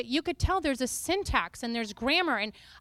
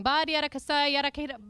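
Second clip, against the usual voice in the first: spoken tongues; faster than usual. Shown as a demonstration. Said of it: "walk through the grocery store going".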